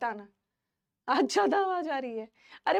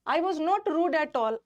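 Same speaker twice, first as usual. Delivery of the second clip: very slow, every word spaced out; slow emphatic denial; much slower than usual. Real, not acted. Teacher telling her class she wasn't rude, slow and deliberate. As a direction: lay out each word to make the point stick. Defending herself against rudeness complaint.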